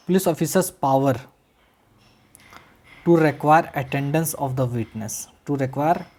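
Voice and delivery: each word spaced out slowly for students to write; slow dictation. Shown as a demonstration. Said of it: "लिखो".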